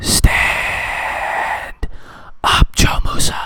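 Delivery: slow, close whisper right into the ear.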